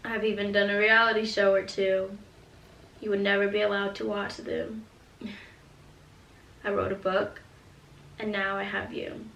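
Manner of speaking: gentle, earnest letter reading; reading a letter aloud. Acted. Mother reading her letter to her daughter, tender and earnest. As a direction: read it like a note to your future child.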